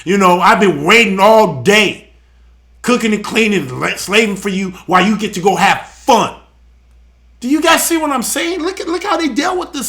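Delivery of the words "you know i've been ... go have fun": mock complaining. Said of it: "Instead of complaining".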